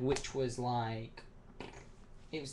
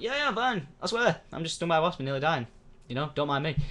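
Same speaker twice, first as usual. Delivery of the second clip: sarcastic reassurance, higher, a bit fast; mock breezy; 4 semitones higher than usual. Boy sarcastically reassuring the nurses. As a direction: shrug it off while clearly dying. Sarcastic reply while gasping.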